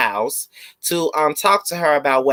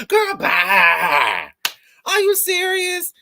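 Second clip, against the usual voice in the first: dismissive; much slower than usual. Real, not acted.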